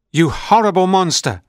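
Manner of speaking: put-on high, loud child's scream of insult; screaming boy. A narrator's reading. A boy screaming insults at the monster, high and loud. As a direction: yell it up high like a furious, scared boy. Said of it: "screamed the boy".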